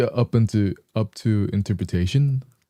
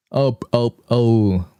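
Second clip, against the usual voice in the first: pitched-up voice, a little higher; 3 semitones higher, much slower than usual. Real, not acted. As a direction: lift the voice up a bit. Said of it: "intermittently make my voice higher".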